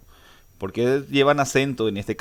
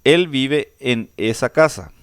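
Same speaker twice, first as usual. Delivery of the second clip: slow example reading; 2 semitones higher, 6 dB louder, slower than usual. Shown as a demonstration. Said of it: "Ahí tenemos un pequeño ejemplo".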